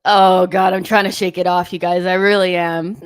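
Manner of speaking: exasperated outburst. Real, not acted. Reacting loudly to conceded goal.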